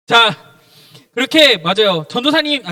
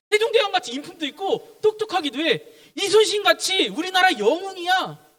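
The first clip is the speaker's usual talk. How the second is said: lightly acted admirers, pitched higher; admiring people; 7 semitones higher than usual. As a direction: voice the crowd's praise in a raised pitch. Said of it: "사람들이 예수님을 부를 때 이렇게 부른다는 거예요". (살짝 높은 톤으로 감탄하는 사람들 흉내)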